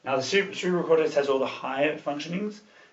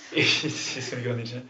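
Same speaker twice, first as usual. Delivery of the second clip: laughing; faster than usual. Real, not acted. Laughing about recording.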